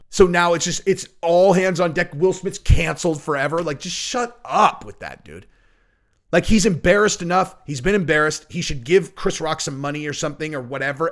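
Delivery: loud exasperated rant; ranting preview clip. Shown as a demonstration. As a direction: vent at celebrity outrage. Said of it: "so you get the idea".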